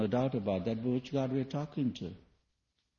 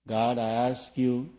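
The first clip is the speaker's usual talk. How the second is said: slow demanding prayer; 3 dB louder, slower than usual. Retold or imitated. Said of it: "you know how they ask?".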